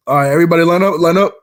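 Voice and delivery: coach calling out. Retold or imitated. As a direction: call the team to line up. Coach ordering team.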